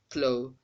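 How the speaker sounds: plo with an unreduced vowel; full O in plo. Shown as a demonstration. Teacher shows what to avoid, full O in plo. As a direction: say plo with a long clear O. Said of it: "it shouldn't sound as".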